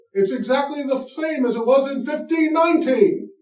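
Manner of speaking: hammed-up British accent, an old Englishman lost in today's world. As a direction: put on a bad mock British accent as a bewildered Englishman. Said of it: "That's my British accent".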